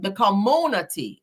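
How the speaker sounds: "community" drawn out with a moo in the middle; Tisha voice. Acted. Host correcting herself into Tisha's voice, "community" drawn out. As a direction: stretch "community" slowly as com-MOO-nity. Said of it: "in my Tisha voice".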